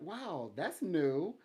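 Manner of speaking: high and loud, caught off guard; amazed surprise. Retold or imitated. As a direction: gasp it out like you just heard something new. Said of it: "And you're like".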